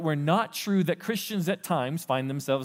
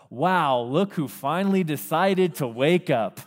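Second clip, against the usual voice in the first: sarcastic parent; 3 dB louder, slower than usual. Retold or imitated. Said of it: "the first thing your parents say to you".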